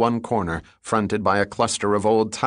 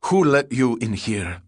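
thundering; 2 semitones higher than usual. Acted. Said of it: "Batal thundered at the man".

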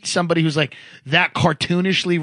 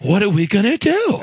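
imitating an Italian-American Long Island guy; mock Long Island Italian accent, telling a coworker's story. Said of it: "he talked like this, Italian guy".

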